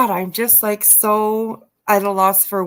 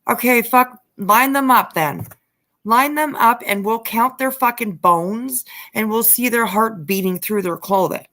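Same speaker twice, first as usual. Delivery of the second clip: heated rant; 3 semitones higher than usual. Real, not acted. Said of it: "I get so, like, heated".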